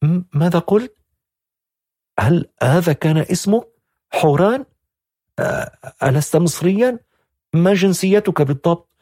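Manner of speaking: high, stammering astonishment; astonished. A narrator's reading. Young woman baffled by the strange name, high and stammering. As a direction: fire the questions in disbelief. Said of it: "قالت بتعجب من الاسم".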